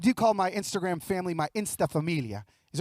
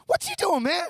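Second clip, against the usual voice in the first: playing the startled piano guy; surprised piano man; 10 semitones higher than usual. Piano man startled by a stranger, high surprised voice.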